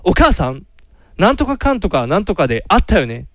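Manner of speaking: theatrical male-role reading. Retold or imitated. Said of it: "ちょっと入り込んでるやつや".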